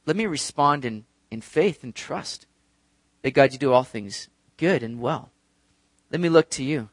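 subdued, earnest plea to God; humble prayer. Acted. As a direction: settle into a trusting, restrained prayer. Models a humble prayer of trust.

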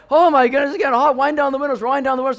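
high, loud heat complaint; urgent call from a sweltering car; overheated alarm. Retold or imitated. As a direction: act out rising discomfort, loudly. Acted reaction to desert heat.

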